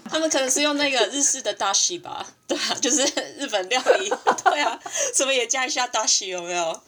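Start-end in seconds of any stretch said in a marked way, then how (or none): 2.4-6.8 talking through giggles; laughing. Real, not acted. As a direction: chuckle while speaking. Joking about dashi, laughing.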